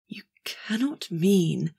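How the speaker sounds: hushed, slow, stunned whisper; choked whisper. Acted. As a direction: barely get the words out. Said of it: "in a choked gasp".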